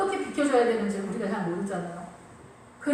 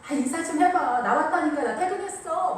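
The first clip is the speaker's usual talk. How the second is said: higher-pitched mock aegyo; cutesy pleading; 5 semitones higher than usual. Husband just home asking wife to greet him, cutesy pleading. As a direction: playfully whine for a greeting. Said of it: "어울리지 않게 막 애교 떨면서".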